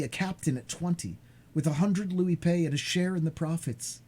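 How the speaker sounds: lightly voiced excited young man; a hint of a thrilled young son; eager young sailor. Dantès voiced in story.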